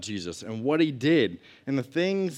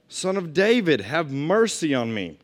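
higher, louder cry for mercy; louder shout; 3 semitones higher, 4 dB louder than usual. Acted. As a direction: call out louder, begging. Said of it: "he only shouted louder".

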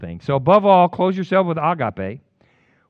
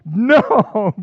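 loud, high pleading no; anguished protest; 13 semitones higher, 9 dB louder, much slower than usual. Retold or imitated. Preacher refusing God's push to pity his rival, loud and anguished. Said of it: "I'm getting mad now".

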